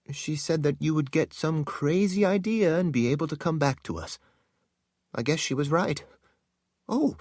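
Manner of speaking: embarrassed servant explaining herself to Lord Rahl; flustered young woman. Acted. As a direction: blush through the words, backpedaling. Narrator voices flustered Nina.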